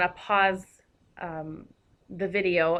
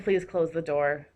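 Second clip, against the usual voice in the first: polite request; 3 semitones lower than usual. Shown as a demonstration. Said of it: "would probably generally end with a period".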